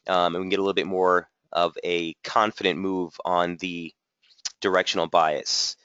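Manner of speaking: audio cutting out mid-sentence; glitchy dropouts in the stream; corrupted glitchy audio. Real, not acted. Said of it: "Sound is cutting out for a few seconds again".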